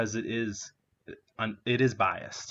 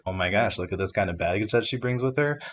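mock eager Gatsby; 10 dB louder than usual. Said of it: "Here he's like".

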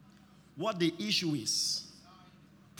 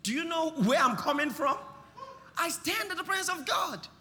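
rising to a loud preaching shout as Gabriel; preached Gabriel reply; 6 semitones higher, 4 dB louder than usual. Acted. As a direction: proclaim it as the angel, building.

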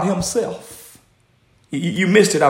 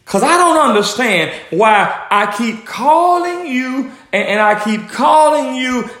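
higher, insistent acted plea; frustrated pleading; 5 semitones higher than usual. Prophet telling God he keeps calling unanswered, frustrated pleading. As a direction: plead upward, stretching the key words.

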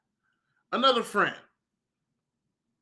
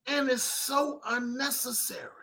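whisper; 3 semitones higher, 8 dB quieter than usual. Real, not acted. Vlogger lamenting racial division.

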